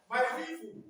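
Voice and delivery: put-on Hausa-accented "people", P turned to F. Teacher showing how Hausa speakers swap P for F, Hausa accent. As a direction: say "people" as "feefu", Hausa-style. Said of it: "They interchange F for what?".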